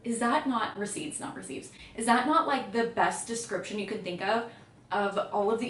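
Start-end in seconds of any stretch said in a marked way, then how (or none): 0.8-1.7 quick whispered aside correcting the word; whispered correction. Real, not acted. Reviewer whispering a fix after misreading a quote, hushed aside. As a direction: breathe the correction almost silently.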